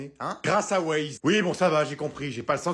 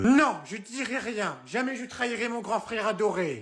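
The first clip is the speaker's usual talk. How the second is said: put-on stubborn little kid; 5 semitones higher than usual. Kid refuses to betray brother.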